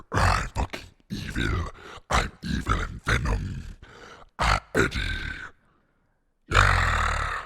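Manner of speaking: low, raspy monster growl; Venom demo. Shown as a demonstration. Streamer demonstrating the voice effect as a monster, deep raspy growl. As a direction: growl from the throat like a villain. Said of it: "all I have to do is go".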